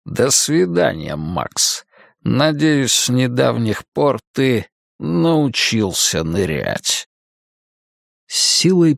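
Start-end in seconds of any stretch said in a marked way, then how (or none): 0.0-7.1 sinister magician. Acted. Cain bids mocking farewell.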